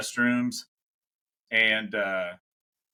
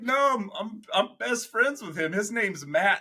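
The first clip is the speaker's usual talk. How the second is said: much higher, insisting; high insistent buddy voice; 9 semitones higher than usual. Retold or imitated.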